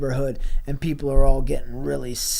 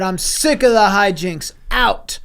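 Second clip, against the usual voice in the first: raised, punchy mock outrage, higher on the last word; mock fed-up mom; 3 semitones higher, 4 dB louder than usual. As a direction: throw him out with hammed-up exasperation. Acting out mom throwing Grimace out.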